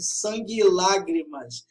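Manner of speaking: "sangue e lágrimas" with final E and "e" run together; fused vowels. Shown as a demonstration. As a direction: merge "sangue e" into "san-gui" before "lágrimas". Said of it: "se fundem na fala". ("sangue e" fundido numa só sílaba final)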